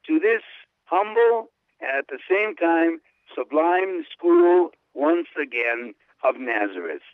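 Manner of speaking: lifted, fervent reading with slow stretches; exclamatory reading. Acted. Host reads the Pope's longing for Nazareth, fervently. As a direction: read the Pope's exclamation with feeling.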